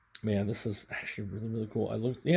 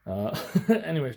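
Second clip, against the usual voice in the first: laughing; 3 semitones higher, 3 dB louder than usual. Real, not acted. Laughs while wrapping up.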